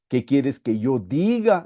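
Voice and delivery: slow question leaning on "diga"; stress on DIGA. Shown as a demonstration. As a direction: draw out "diga" as the wrong word. Contrasta pensar, decir y hacer. (énfasis lento en "diga")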